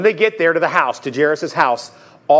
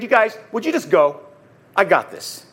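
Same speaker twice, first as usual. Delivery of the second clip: a little frustrated; 3 semitones higher than usual. Acted. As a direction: send them off with slight impatience. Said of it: "He was probably a little frustrated".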